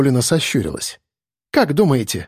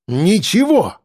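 pitched up, sharp cry of Ничего; near shout; 6 semitones higher, slower than usual. A narrator's reading. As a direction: blurt it out almost shouting. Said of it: "почти выкрикнула Елена".

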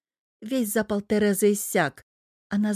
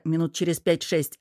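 ordinary delivery, nothing marked

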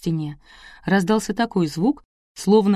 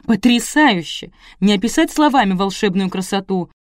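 excited gushing; 3 dB louder than usual. Acted. Gushing hostess praise.

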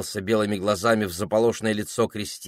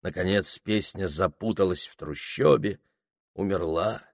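ordinary delivery

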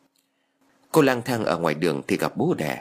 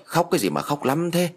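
angry shout; 7 semitones higher than usual. A narrator's reading. Grandfather at the crying grandson, mild angry shout. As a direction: snap crossly with restrained volume. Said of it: "Ông tức quá liền quát".

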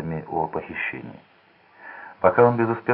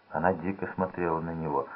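ordinary delivery, nothing marked

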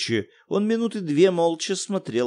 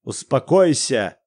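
louder, slow, cutting; angry snap; 5 dB louder, slower than usual. Acted. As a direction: cut her off coldly. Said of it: "Неожиданно зло оборвал её". (зло обрывает жену)

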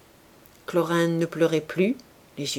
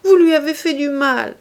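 much higher, loud insistent cry; young woman crying out at the old man; 8 semitones higher, 8 dB louder than usual. A narrator's reading. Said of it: "cria-t-elle". (crier, aigu et insistant)

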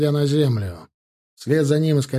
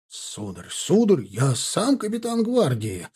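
shrill squeal; slower than usual. A narrator's reading. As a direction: squeal in offended self-importance. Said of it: "заверещал".

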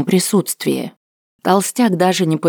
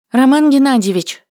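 calling out; 8 semitones higher than usual. A narrator's reading. Secretary bursts in calling.

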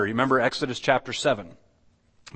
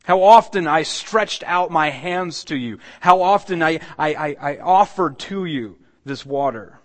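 pleading lament; 4 semitones higher, 4 dB louder than usual. Acted. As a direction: stretch each word out in longing. Jesus' pleading voiced by preacher.

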